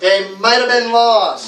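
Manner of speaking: MIGHT and LOST loud, high and long; stress on might, lost. Shown as a demonstration. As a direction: model drill, "have been" squeezed between might and lost. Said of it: "say it a little louder and say it a little longer".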